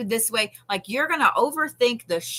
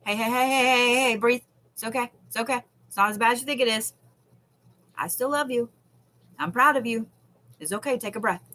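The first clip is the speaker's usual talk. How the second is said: soothing inner voice; 2 semitones higher, faster than usual. Shown as a demonstration. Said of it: "I'm gonna hand you this little Bodhi voice".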